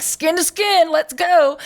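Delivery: high, loud-ish nurse impression; mock peppy nurse voice; imitated bossy nurse. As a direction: chirp it high like a nurse giving orders. Imitating brisk Southern nurses in NICU.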